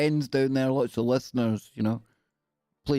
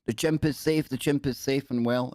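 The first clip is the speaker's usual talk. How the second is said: zoo official statement. Pretend. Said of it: "It probably didn't sound like that".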